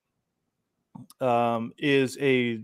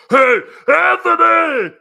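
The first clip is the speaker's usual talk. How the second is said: high, drawn-out excited call across the room; loud, slow, high hailing shout; 11 dB louder, slower than usual. Retold or imitated. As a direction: yell his name like spotting a hero. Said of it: "he was, like, jumped up".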